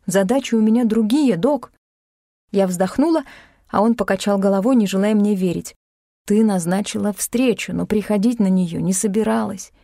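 usual speaking voice

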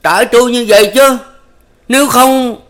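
loud, high furious shout; quát lớn giận dữ. A narrator's reading. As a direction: bark it at them. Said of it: "quát lên".

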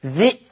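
ذي cut short by a glottal stop; short i, then hamza, in ذي; still hamza. Shown as a demonstration. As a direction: say ذي as "dhi'". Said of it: "ذا المكسورة في همزة ساكنة".

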